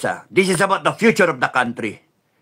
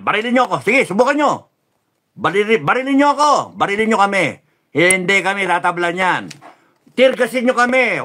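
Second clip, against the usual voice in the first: defiant shout; 5 semitones higher, faster than usual. Acted. Daring soldiers to shoot them.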